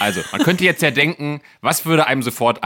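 talking through a laugh. Real, not acted. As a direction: giggle while you tease. Laughing while teasing.

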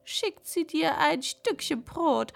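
high, chatty crow voice. Acted. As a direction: speak as an eager talking crow. Crow character speaks.

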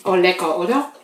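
lachend genießen. Real, not acted. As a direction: lachend loben. Lacht beim Probieren. (lachend lecker)

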